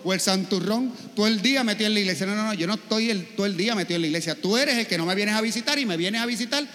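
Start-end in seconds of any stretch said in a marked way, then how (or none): 0.0-2.3 fast teasing jab at the churchgoer; mocking jab. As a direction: rattle it off like a snide relative. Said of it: "se molesta como quiera".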